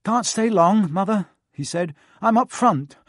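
put-on self-important older brother; pompous prefect. A narrator's reading. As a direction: talk down importantly. Percy the prefect.

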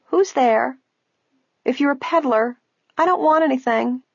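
put-on high, muffled old woman through a door; muffled old woman calling. A narrator's reading. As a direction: call out warily from behind the door. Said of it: "a muffled voice called".

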